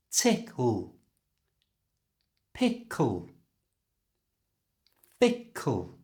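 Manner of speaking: "Tickle", "Pickle", "Fickle" each ending in a clear L; dark L endings. Shown as a demonstration. Teacher modeling words for learners to copy. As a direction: say each word slowly, tongue up on the final L. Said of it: "use that sound to pronounce these words".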